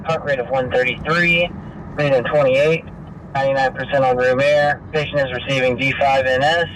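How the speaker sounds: ambulance radio. Real, not acted. Scanner dispatch being played live.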